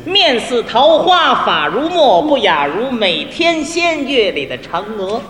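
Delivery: slow, measured reading of opera lyrics; spoken verse, lightly drawn out; lyric recitation. Shown as a demonstration. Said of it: "您给念一念".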